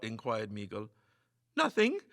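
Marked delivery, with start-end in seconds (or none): 1.5-2.0 frightened stammer, higher. A narrator's reading. Lester hides his fear from the others, scared stammer. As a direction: blurt it out, scared. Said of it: "stammered Lester".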